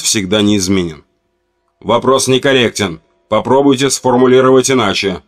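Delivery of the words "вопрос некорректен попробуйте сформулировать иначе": металлический голос робота. Acted. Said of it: "холодным металлическим голосом отчеканивает".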